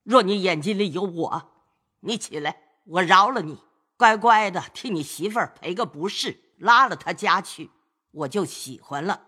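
high, sharp lecture from an elder; old lady scolding. Acted. Grandmother lecturing kneeling grandson, scolding. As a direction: keep berating him, then bargain. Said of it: "贾母又道".

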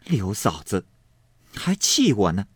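a lightly acted jeer ending in a spit; mocking girl. A narrator's reading. Fangguan mocks back, ends spitting. (尖酸挖苦的小丫头)

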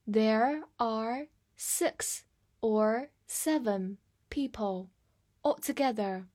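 very slow, separated words; slow read-through. Shown as a demonstration. Teacher demonstrates the example for learners, reading slowly. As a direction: model it slowly, one word at a time. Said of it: "来慢读一遍".

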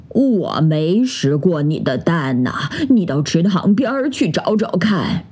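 a hint of a kindly elder; lightly voiced old goat. (老山羊慢慢地回答，声音略低)

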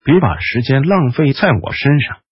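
rasping sickly mage; hoarse voice. Acted. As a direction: scrape the words out hoarsely. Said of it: "雷斯林嘶哑地说".

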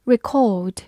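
"record" as British verb, ri-KAWD; British verb pronunciation. Shown as a demonstration. Teacher repeats the verb for learners, British accent. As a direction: say "record" the British way, stress second, no R. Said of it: "美式发音record".

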